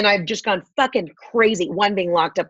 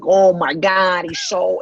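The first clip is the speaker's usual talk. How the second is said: exaggerated drama; slower than usual. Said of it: "everything's exaggerated".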